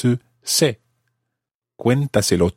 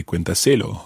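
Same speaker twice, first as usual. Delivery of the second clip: "cuéntaselo" with the stress moved onto SE; wrong stress. Shown as a demonstration. Teacher showing what we couldn't say, stress shifted to SE in "cuéntaselo". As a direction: say "cuéntaselo" as cuenta-SE-lo. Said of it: "We couldn't say".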